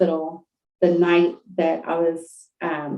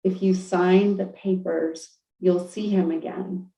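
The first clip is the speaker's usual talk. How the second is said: calm divine voice. Retold or imitated. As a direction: tell her gently, without hurry. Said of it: "the voice was like".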